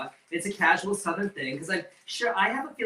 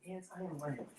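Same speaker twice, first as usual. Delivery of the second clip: laughing. Real, not acted. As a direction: giggle through the confession. Host caught fibbing, laughing.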